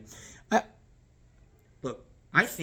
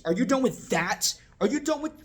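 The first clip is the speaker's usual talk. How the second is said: high-pitched, pushy question; mock intrusive asking; 10 semitones higher, 4 dB louder than usual. Shown as a demonstration. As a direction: pester the guest, pitched well up. Wrong way of clearing plates.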